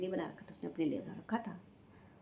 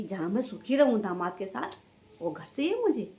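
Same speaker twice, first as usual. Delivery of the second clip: mock selfish mother; 5 dB louder than usual. Vlogger mimics what a mother would never say, indignant mockery. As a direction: sarcastically voice the mother, pushing up on "घर चाहिए मुझे". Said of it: "पर माँ ये नहीं बोलती".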